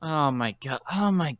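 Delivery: slowing into a weary whisper; exasperated muttering. Acted. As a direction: sigh it out in disbelief.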